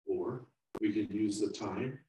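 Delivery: calm, earnest moral lesson; sermon. Real, not acted. Preacher drawing the moral for the congregation, sincere. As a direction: bring the story home to the listeners.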